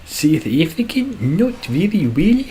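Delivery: high-pitched, exaggerated South African accent. Shown as a demonstration. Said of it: "do a South African accent".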